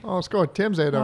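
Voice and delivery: light mock Canadian accent. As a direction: join in with a playful Canadian lilt. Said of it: "I have a Canadian accent".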